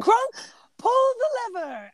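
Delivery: high imperious order; commanding Yzma. Retold or imitated. Friend quoting Yzma ordering Kronk, high and imperious. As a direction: bark an order at a henchman.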